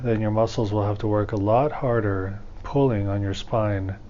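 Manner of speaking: calm, measured meditation guide with long pauses; guided meditation. Acted. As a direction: ease listeners into breathing, leaving room between phrases.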